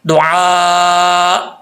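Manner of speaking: दुआ with a faint half hamza at the end; half hamza sound. Shown as a demonstration. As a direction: stretch दुआ and let the hamza barely sound. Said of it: "इसकी half हालत यानी इसका sound आना था".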